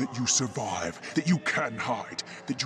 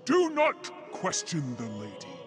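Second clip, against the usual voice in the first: higher-pitched, commanding reprimand; stern rebuke; 4 semitones higher than usual. Acted. Leader silencing a follower who questions the lady, stern. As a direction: rebuke the doubter with force.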